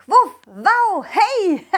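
high barking dog voice; cartoon dog. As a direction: yap it out, playful pup. Dog voice intro ends.

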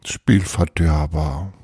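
slow echo with a lifted ending; repeated mock sulk. Reader echoing the pouting magician, mock sulk. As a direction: draw out Spielverderber, musing on it. Reader savours the sulky word afterwards.

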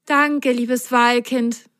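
slow, high, grateful thanks; slow happy thank-you. Acted. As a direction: thank the little whale warmly. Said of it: "sagte Sine glücklich".

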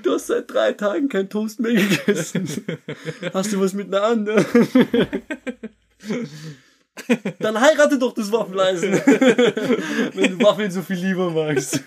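high, laughing, accusing soap-opera voice; jealous lover. Pretend. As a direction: scold like a betrayed spouse. Jealous toaster quarrel.

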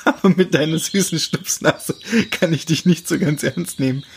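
said with a teasing grin; grinning. Acted. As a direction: tease her gently through a grin. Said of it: "grinste er".

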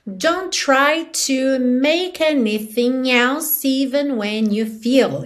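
slow line, "make anything else" run together; tightly linked. Shown as a demonstration. Teacher modelling the lyric slowly, all words joined up. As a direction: link every word from "Don't try" to "feel", slowly. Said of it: "aqui tudo bem ligadinho".

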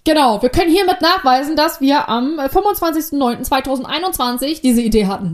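tipsy, slightly slurred words. Real, not acted. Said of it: "ich bin besoffen von der anderen Folge".

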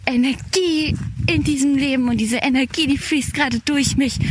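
talking on the move outdoors; while running. Real, not acted. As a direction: speak while jogging along. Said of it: "Ich lauf gerade draußen".

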